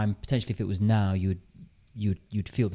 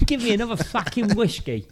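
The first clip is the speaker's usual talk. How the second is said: higher put-on grumpy old British bloke; disgruntled British man; 11 semitones higher than usual. Brother drowning sorrows in a pub, mock disgruntled British accent. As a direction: demand the drink like a sour 1930s Brit. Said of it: "Disgruntled British man from nineteen thirty".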